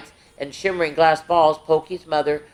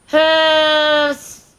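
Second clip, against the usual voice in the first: sniffing; 11 semitones higher, 4 dB louder than usual. Acted. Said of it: "Herman sniffed".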